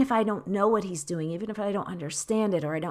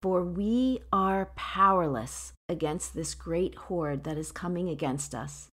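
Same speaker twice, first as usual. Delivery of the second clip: measured, earnest Bible reading voice; scripture reading. Acted. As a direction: read the prayer aloud to the congregation. Reads her favorite verse.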